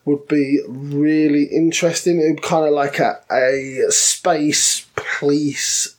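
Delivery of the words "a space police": slow, hushed whisper. Pretend. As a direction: breathe it out slowly like a secret. Dramatic aside about the theme.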